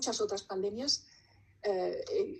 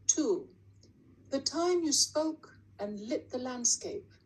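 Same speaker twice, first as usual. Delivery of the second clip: measured poem reading, long pauses between lines; poetry recital; slower than usual. Acted. Poet reading a numbered war poem to an audience, measured recital. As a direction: recite it deliberately, each line falling to a close.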